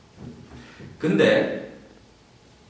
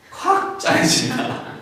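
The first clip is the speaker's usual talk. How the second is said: much higher, slow, breaking into a squeal of laughter; squeaky laughing; slower than usual. Real, not acted. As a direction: squeeze the words out through a laugh. Squeezed heart, laugh.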